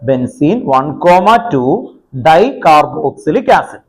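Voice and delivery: slow, evenly chunked dictation. Real, not acted. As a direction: repeat it slowly for people writing, pausing between parts. Teacher repeats name as dictation. (പറഞ്ഞെഴുതിക്കുന്ന പോലെ പതുക്കെ)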